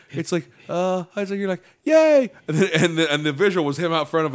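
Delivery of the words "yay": mock cheer. Comedian bit quote.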